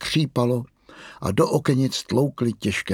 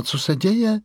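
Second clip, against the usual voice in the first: překvapená otázka; 10 semitones higher than usual. Acted. Rozespalá maminka se lekne.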